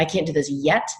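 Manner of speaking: mildly hopeful, lifting on 'yet'. Acted. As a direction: leave it open with a rising 'yet'. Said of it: "The brain hears hope".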